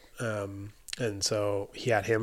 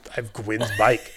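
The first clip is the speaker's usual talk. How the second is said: awed whisper; 5 dB louder than usual. Retold or imitated. Retold awe, telling housemate.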